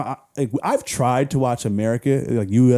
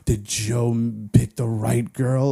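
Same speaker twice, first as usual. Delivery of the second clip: slow, breathless mock-worried fan; 2 semitones lower, much slower than usual. Mocking a Bachelor fan, slow and breathless with mock concern. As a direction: gasp then fret like a superfan.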